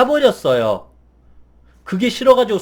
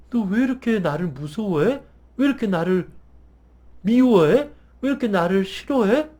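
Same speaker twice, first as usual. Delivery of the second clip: soft gentle asking. Retold or imitated. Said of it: "그러면서 천천히".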